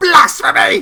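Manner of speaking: piercing shriek, very high and loud. Voicing a woman who suddenly becomes alert, shrieking. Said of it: "She shrieks".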